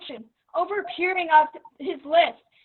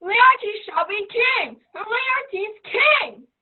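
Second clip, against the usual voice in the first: mob cry; 4 semitones higher, 3 dB louder, much slower than usual. Retold or imitated. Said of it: "Caps, heads, and tongues applaud".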